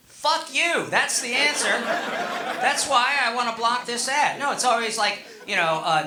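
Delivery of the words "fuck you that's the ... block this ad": mock angry reply. Comic imitating his reply to ad.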